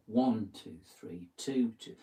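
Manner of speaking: "One" stressed; counting in three. Shown as a demonstration. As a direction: lean on the first beat. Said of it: "you've got three happening".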